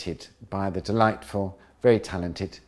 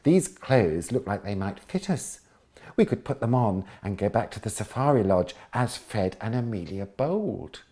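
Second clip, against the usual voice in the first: excited. Acted. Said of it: "said Sue excitedly".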